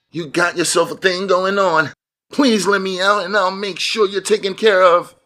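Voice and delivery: very high-pitched voice. Narrating a captive man's words to the man holding him: high-pitched voice. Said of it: "in his high-pitched voice".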